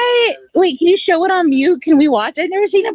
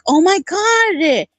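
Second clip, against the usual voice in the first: mock enlightened awe; 5 semitones higher, much slower than usual. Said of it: "all fucking enlightened and shit".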